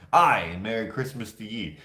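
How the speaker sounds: lightly put-on Scottish greeting; a hint of Scottish lilt on "Aye" and "ye"; mock Scottish accent. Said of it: "Can you imagine?".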